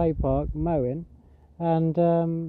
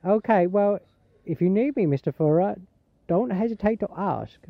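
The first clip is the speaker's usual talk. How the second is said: higher-pitched imitated Thai lady accent; 4 semitones higher than usual. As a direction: take the refusal politely in put-on Thai accent. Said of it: "was a Thai lady".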